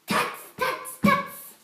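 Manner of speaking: breathy tuts rising to a loud high squeak; tut-tut like a teasing monkey; mocking monkey tuts. Shown as a demonstration. Monkeys mock the peddler back, tuts ending loud and high. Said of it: "Let me show".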